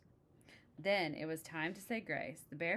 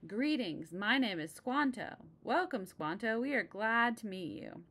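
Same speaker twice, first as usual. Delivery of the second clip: lively greeting; 5 semitones higher, 5 dB louder than usual. Acted. Squanto and pilgrims greeting.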